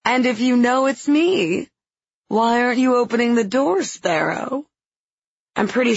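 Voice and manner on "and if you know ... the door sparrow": smiling voice. Acted. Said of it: "The smile in his voice is unmistakable".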